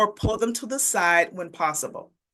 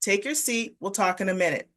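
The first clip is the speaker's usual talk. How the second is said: softer, steady, no question in it; calm and firm; 4 dB quieter than usual. Shown as a demonstration. Teacher to defiant student, calm firm statement. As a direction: state it quietly, like the matter's settled. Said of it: "you want to say it calmly and firmly".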